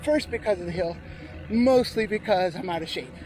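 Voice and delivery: a little winded, talking in short bursts; slightly out of breath. Real, not acted. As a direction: talk while recovering from a hard climb. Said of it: "I'm a little bit out of breath".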